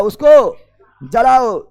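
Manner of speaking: उसको जलाओ stretched very slowly, each syllable pulled long; slow emphatic command; drawn out. Shown as a demonstration.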